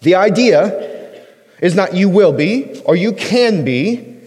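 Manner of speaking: "you will be" and "you can be" said slowly, as the wrong readings; slow contrast. Shown as a demonstration. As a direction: set up the wrong versions slowly. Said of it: "You are".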